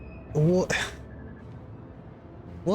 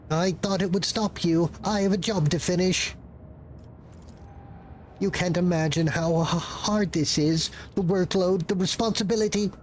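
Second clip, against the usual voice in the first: pleading clerk voice; 3 semitones higher than usual. Acted. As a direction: beg for understanding, flustered.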